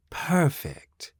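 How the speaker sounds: lightly voiced calm machine; polite, even android tone; smooth robot voice. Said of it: "The soothing speech of the mechanical".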